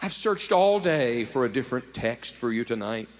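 soft, humble apology, dropping quiet; an understated, apologetic young preacher. Retold or imitated. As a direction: say sorry gently to the crowd. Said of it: "with an apologetic tone".

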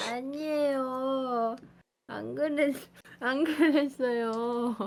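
slow, chewing denial; mouth full. Real, not acted. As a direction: deny while still chewing. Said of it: "지금 입에 넣었다".

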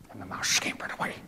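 fast whispered narration; quick whisper. A narrator's reading. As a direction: hurry it under the breath.

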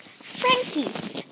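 high excited cry of her name; excited call. Retold or imitated. Jackie Laura spotting Frankie on a date, excited high call. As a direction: squeal the name out in surprise. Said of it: "she's like".

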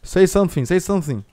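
high, loud insistent calls; insistent demand. Pretend. Player demands silent stranger speak up, insistent high call. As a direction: press a silent stranger to answer.

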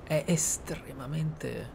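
normal talking voice

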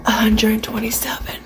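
whispered guess; hushed, breathy number; whispering. Real, not acted. Guessing tape count aloud.

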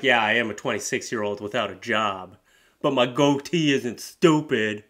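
hammed-up wounded pride; offended boyfriend. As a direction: defend the goatee like your honour's hurt. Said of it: "I love how he's like".

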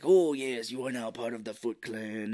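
hint of a henchman voice; slightly put-on ceremonial quote; lightly voiced villain. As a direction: mildly imitate a movie villain welcoming a recruit. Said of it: "he was like".

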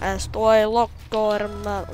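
put-on slow Russian accent on Spanish words. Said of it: "Why did I just switch to a Russian accent?".

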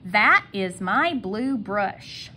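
"That is my blue brush" drawn out slowly; slow model sentence. Shown as a demonstration. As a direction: say each word slowly and clearly. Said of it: "now my sentence".

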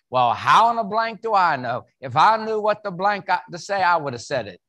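a hint of a gruff, annoyed head coach; lightly voiced coach, brushing off the question; gruff Coach Saban. Speaker imitating Coach Saban snapping back at him. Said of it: "I usually get something back like this".

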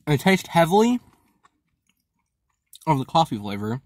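talking behind hand; chewing while talking. Real, not acted. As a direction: mouth partly full. Seen 1: Ate the wafer before; he chews and covers his mouth while talking.

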